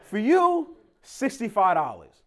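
squeaky high "for you", then slow "sixty-five dollars"; mimicking the street seller's pitch; hustler's sales voice. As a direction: sell it like a sidewalk hustler. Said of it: "that's how they say it".

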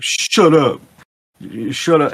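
high, loud "shut up" at a teasing pal; annoyed friend yelling. Retold or imitated. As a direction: snap it back like the bald friend being mocked. Bald friend snaps back at teasing.

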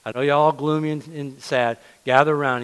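loud summons to a crowd; calling out. Retold or imitated. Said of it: "He said".

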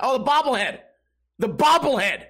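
light up as it clicks; sudden realization. Retold or imitated. Telling the kid at the game what he meant, excited.

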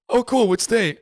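high, chirpy question; mock eager asker. Imitating a curious European asking which state, high. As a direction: play the curious stranger brightly. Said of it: "This is how it goes".

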